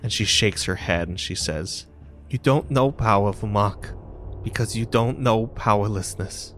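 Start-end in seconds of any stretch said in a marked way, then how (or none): 2.3-6.5 lightly voiced wounded younger sister; pained, angry girl character; Goliath girl, bitter. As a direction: accuse him, pitch rising with the hurt.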